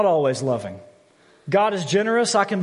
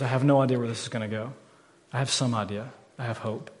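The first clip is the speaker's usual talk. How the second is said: hushed hope; 4 semitones lower, 6 dB quieter, faster than usual. Real, not acted. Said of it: "private prayer trailing off".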